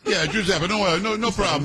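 high mock Italian accent; Italian club server.

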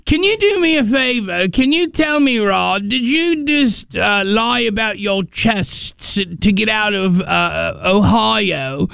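mock British reporter. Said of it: "They don't say".

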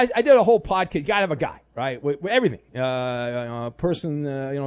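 ordinary talk, nothing marked

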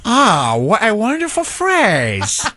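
slow, drawn-out fake Korean accent; hammed-up Korean accent, half speed; mock Korean accent. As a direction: savour it in a put-on Korean accent. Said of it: "what accent do you want Eddie and I to do?".

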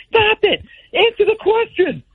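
high mock yell at the TV; Will Ferrell yell. Radio host mock-yelling at a stalling guest on TV. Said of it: "yell through the, uh, the T V like Will Ferrell".

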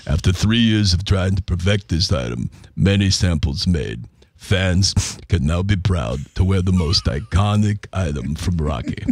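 lightly voiced Rocky Balboa; reading the ad as Rocky; Rocky impression. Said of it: "this one's annoying the crap out of me".

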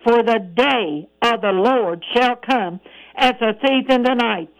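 slow, deliberate scripture reading; slow down to drive each word home; measured, slow reading. Shown as a demonstration. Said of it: "I need to slow down".

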